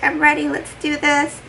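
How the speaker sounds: high, pumped-up husband imitation; excited husband. Husband ready for the birth, high and pumped. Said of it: "he was, like, super excited".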